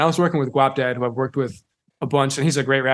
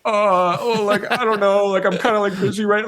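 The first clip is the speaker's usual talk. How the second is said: mock casual brush-off; 6 semitones higher, 3 dB louder than usual. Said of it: "I would've been like".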